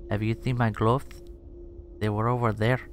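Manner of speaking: bad Spanish accent lisping th for s; a clumsy Castilian lisp, Spanish accent. Gamer trying his best Spanish accent on space Spaniards. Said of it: "That's my best Spanish accent".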